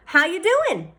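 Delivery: high, friendly greeting; a waitress welcoming customers. A narrator's reading. Restaurant woman greets them.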